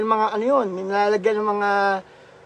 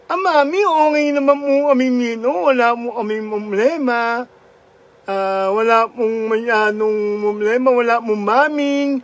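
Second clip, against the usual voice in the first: slurred cleft-palate speech, lightly raised; mock Ngongo voice. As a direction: imitate the Ngongo child calling home, slurring. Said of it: "yung kwento ni Ngongo".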